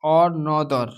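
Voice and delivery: another said slowly, final er as uh; slow demo word. Shown as a demonstration. Teacher models E as uh in another, slowly. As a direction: draw out another clearly. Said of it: "ई को अ से कब उच्चारित".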